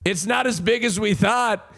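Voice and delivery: high, excited gawker voice; mocking onlookers. Imagined people reacting to a leaked photo, mock amazement. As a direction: lift the pitch like people gossiping over a picture. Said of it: "'Cause if people are like".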